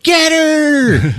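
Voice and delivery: high squealing command; mock order shout. Doctor ordering orderlies after Sarah, squealed shout. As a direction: yell it like a panicked doctor.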